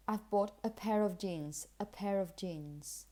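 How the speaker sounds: "a" and "of" weak, linked to "pair"; connected phrase with weight on "pair" and "jeans"; small words unstressed. Shown as a demonstration. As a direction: glide over "a" and "of". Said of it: "Not really stressing this or this".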